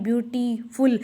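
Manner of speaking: ब्यूटीफुल said in separated parts, "byu-tee, ful"; syllable breakdown. Shown as a demonstration. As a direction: break ब्यूटीफुल into spoken chunks with small gaps. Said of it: "बोलते कैसे हैं".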